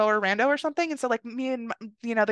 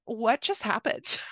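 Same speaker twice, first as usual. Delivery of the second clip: stunned disbelief; slower than usual. Retold or imitated. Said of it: "I sit down on the bed and I'm like".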